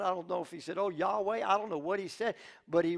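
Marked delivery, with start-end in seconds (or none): 0.8-1.4 alarmed cry. Acted. Servant sees enemy army.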